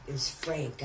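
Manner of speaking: normal talking voice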